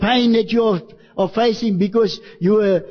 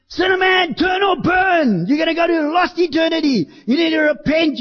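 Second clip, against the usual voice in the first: street preaching shout; 7 semitones higher than usual. Retold or imitated. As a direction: bellow it at passing sinners. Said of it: "I'd shout down the street".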